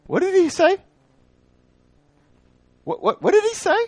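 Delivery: high, bewildered double take; baffled. Acted. Listeners puzzled by John's words, high baffled double take. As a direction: sound utterly confused by it. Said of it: "statements that just make you what?".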